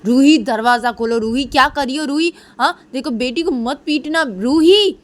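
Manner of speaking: high, loud calling out; calling through door. Acted. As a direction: call through the locked door. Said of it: "knock करते करते बोलती". (दरवाज़े के बाहर से ऊँची आवाज़ में पुकारना)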